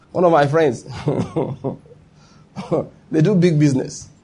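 chuckling through the words; a soft laugh carried into the start of the story. Real, not acted. Preacher chuckling as he begins a story about friends.

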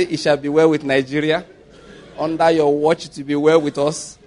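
measured prophetic blessing, lightly done; solemn blessing. Pretend. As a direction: bless the president calmly like a prophet. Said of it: "And I will say".

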